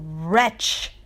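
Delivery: cried out. Acted. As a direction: fling the word at the bird. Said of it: "I cried".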